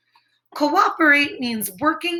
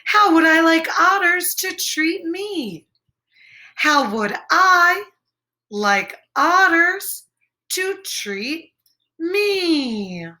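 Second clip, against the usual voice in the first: wondering rabbit; 4 semitones higher than usual. Acted. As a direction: puzzle it out aloud, higher.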